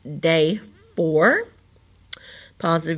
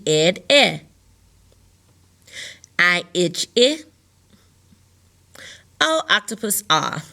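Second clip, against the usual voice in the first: sound drill. Shown as a demonstration. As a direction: call out each vowel, key word, vowel. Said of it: "So repeat after me".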